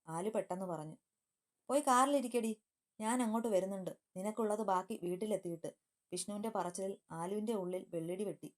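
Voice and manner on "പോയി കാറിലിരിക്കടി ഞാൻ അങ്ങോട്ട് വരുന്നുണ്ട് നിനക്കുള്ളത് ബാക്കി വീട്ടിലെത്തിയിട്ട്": angry order. Acted. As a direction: order her to the car in anger, then cool off. Vishnu orders her to the car. (ദേഷ്യത്തോടെയുള്ള ആജ്ഞ)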